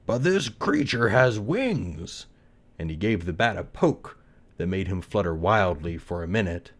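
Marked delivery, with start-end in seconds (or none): 0.1-2.3 slow, louder, higher father rabbit; slow measured father rabbit; Papa Rabbit. Acted. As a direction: weigh it like a fair father. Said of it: "said Papa Rabbit".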